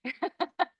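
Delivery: words through a laugh. Real, not acted. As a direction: chuckle while saying it. Laughing at husband's joke.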